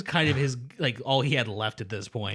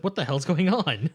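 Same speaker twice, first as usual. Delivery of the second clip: higher, slower what-the-hell; baffled outburst; 6 semitones higher, slower than usual. Retold or imitated. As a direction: Armin walks in on the chaos, confused. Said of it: "It's like".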